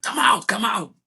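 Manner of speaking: high, held-back mock yell; Thiago Silva yelling. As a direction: imitate a yell without full volume. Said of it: "Thiago Silva yell at Petrovic".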